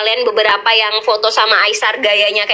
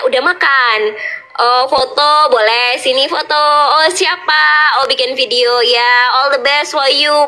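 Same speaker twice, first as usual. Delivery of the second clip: gentle talk. Retold or imitated. Aisar chatting kindly with fans, mildly gentle imitation. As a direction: lightly imitate his gentle, unhurried chat. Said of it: "dia lembut banget ngomongnya".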